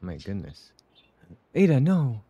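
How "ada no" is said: higher, loud cry of protest; alarmed cry. Real, not acted. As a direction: cry out to stop her. Reacting to character's danger in game.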